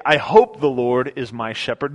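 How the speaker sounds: unsure, questioning take on the line; doubtful hope. Pretend. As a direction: say it like you're not sure. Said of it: "He doesn't say".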